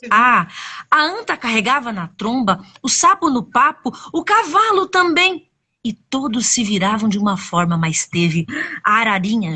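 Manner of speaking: put-on animated telling of a children's tale; expressive storyteller with dramatic pauses; story narration. A narrator's reading. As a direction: stretch key words, lifting the pitch as events build.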